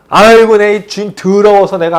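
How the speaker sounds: loud, exasperated sigh into a complaint; grumbling servant. Retold or imitated. Servant griping about his master while working, mock exasperated. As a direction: huff and curse under your burden. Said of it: "욕을 해가면서".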